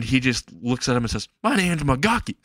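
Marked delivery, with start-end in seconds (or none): 1.4-2.4 high-pitched put-on hobo voice; crazy hillbilly. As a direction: introduce yourself as a loony hillbilly. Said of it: "hillbilly clothes".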